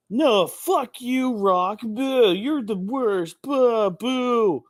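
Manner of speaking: booing crowd. Retold or imitated. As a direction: jeer like a fickle crowd turning on its hero. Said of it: "be like".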